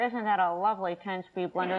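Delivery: mock the prim gift admirer; bridal shower guests. Connecticut women admiring a gift, mock ladylike voice. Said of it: "they all speak like this".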